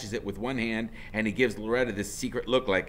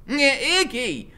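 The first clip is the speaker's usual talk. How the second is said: higher, slow sneering drawl; out of the side of her mouth; 8 dB louder, slower than usual. Acted. Smoking woman calling her man, side-mouthed. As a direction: talk sideways past a cigarette. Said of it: "she says out of the side of her mouth".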